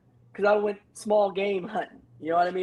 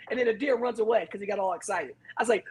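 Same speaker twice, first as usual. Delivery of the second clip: normal talking voice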